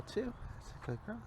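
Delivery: high cooing praise. Real, not acted.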